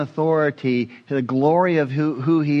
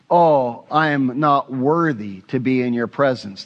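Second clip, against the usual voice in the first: humble seraph. Acted. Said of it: "They cover their feet in humility".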